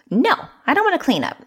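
high whiny refusal; mock child whining no. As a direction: act out a pouting kid who won't clean up. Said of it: "let me just act it out".

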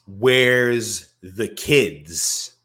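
slow, high, loud and stretched; a hammed-up stretched cry; drawn-out mock wail. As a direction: wail it out long like a frantic parent. Drawn out repeat of quote.

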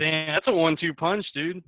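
muffled. Real, not acted. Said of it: "You sound, like, muffled".

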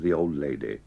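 put-on "old lady" with the second word emphasised; stress on LADY. Shown as a demonstration. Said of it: "a stronger emphasis on the second word".

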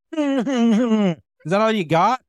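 slow, high challenge to a heckler; pissed-off challenge. Retold or imitated. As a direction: dare him, drawn out slowly. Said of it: "he's pissed off at this point".

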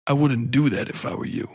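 lightly imitated cool warning; a hint of a composed, commanding actor; Lance Reddick. Mystery man warns the heroine, lightly imitated measured voice. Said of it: "I know his voice".

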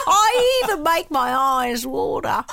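strained, hammed-up Aussie accent. Host explaining the effort of her put-on Aussie accent. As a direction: squeeze out a comic Australian accent. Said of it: "it's not just the voice that you do".

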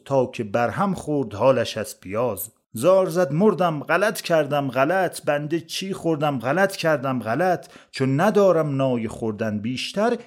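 measured storytelling poem recital; verse recitation. A narrator's reading. Narrator tells a comic verse tale of onions, recited verse. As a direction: recite it as rhymed verse, leaning on the metre.

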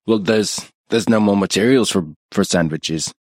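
halting, lightly attempted Australian accent. Stepfather making excuses about sandwiches, attempted Australian. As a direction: fumble through a mock Australian voice. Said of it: "I'm trying to do Australian".

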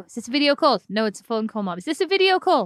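lightly voiced mother, pitch climbing; puzzled mum calling down the phone; confused mother.

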